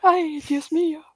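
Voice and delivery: mock shocked. Dramatic Spanish exclamation, mock shock.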